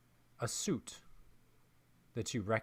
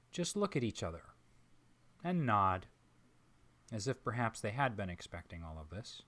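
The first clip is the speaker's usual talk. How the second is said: ordinary talk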